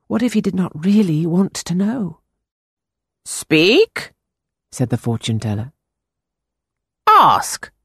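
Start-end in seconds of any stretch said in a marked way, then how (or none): 3.2-4.1 put-on slow, higher eerie old seer; drawn-out mysterious fortune-teller. A narrator's reading. Fortune-teller voiced in story. 7.0-7.7 put-on slow, higher eerie old seer; drawn-out mysterious fortune-teller. A narrator's reading. Fortune-teller voiced in story.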